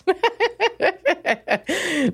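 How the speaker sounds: high bursting laugh; real high-pitched laugh. Real, not acted. Laugh alone.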